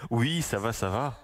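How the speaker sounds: real slightly husky, small voice; a little hoarse, downplaying it. Real, not acted. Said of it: "T'as l'air enroué".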